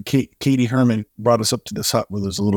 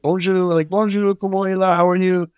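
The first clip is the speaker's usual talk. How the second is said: bright, sung-out "Bonjour" pitched higher; cheerful greeting; 9 semitones higher than usual. Retold or imitated. Retelling the gardening dad greeting the group, lightly voiced. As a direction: imitate the friendly dad calling hello. Imitating Haitian dad's greeting.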